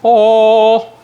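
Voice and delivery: sudden high loud oh; startled exclamation; surprised oh. Real, not acted. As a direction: gasp of delight at the tart. Pulling tart out of oven.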